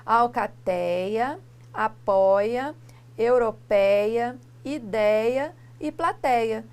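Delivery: "Alcateia", "apoia", "europeia", "ideia", "plateia" read slowly, syllable by syllable; slow word list. Shown as a demonstration. Teacher reading example words to the class. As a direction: read each example deliberately. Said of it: "palavras que nós temos aqui".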